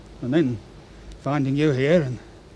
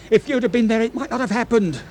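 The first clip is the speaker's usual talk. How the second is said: rising anguish; 7 semitones higher, 3 dB louder than usual. Acted. Smythe's emotion breaking through.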